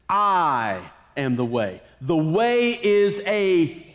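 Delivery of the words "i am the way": lower, slow, solemn declaration; grave Jesus quote. Retold or imitated. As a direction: let the words sink in low and slow. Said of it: "Jesus says".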